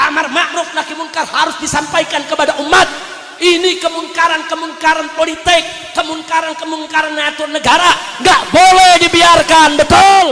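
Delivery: loud, shouting sermon at full force; fiery preaching. Acted. Preacher rousing the crowd against corrupt officials, shouting. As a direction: hammer each phrase at the crowd.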